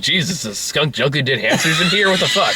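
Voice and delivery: disgusted yell through laughter; laughing disgusted shout. Retold or imitated. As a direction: recoil from the stench, laughing. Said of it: "It's like".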